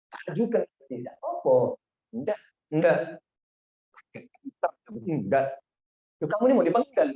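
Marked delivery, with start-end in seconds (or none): 6.2-7.1 higher and louder, baffled question; astonished official. Retold or imitated. Saudi official startled that the condemned sheikh seems unafraid, incredulous. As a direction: sound like you can't believe his calm.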